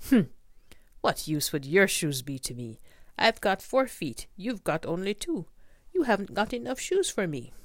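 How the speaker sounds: scoffing tiger. Acted. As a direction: scoff at the silly gift like a proud tiger.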